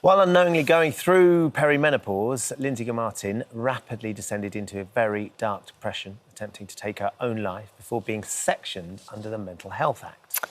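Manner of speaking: grave scripted case introduction; TV presenter link. Acted. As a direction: read a sombre feature intro to camera. Co-presenter reads segment introduction.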